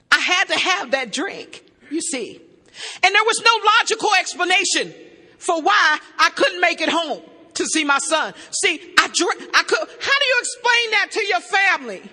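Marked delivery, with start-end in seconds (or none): 3.0-12.0 louder, pressing testimony; building emphatic. Real, not acted. Testimony to the AA meeting, rising to loud emphasis. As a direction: drive it home to the room. Preaching climax to AA room.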